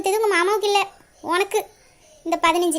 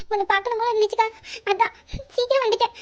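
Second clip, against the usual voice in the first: higher, tearful reply; 4 semitones higher than usual. Acted. Younger sister explaining her early return, tearful. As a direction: answer while crying. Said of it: "அழுவாத".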